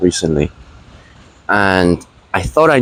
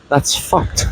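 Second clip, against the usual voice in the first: whispered aside; 4 dB quieter than usual. Real, not acted. Muttered aside about shark sirens.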